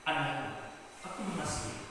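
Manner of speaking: soft, gentle voice of God; God speaking tenderly. Retold or imitated. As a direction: reassure a beloved child quietly. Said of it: "lalu Tuhan berkata kepada dia". (suara Tuhan yang lembut dan menenangkan)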